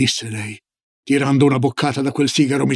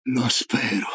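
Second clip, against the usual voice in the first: low, soft sigh of hope; subdued, sighing reply; 5 semitones lower, 7 dB quieter, slower than usual. A narrator's reading. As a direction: let it out on a quiet sigh. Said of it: "sospirò".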